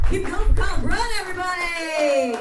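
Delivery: loud, calling out to the room; host shout. Real, not acted. Host yelling to the crowd after the set, loud. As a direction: call it out over the crowd.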